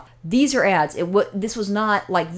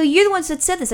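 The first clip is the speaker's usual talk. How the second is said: retold anger; 9 semitones higher than usual. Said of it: "now I was getting pissed off".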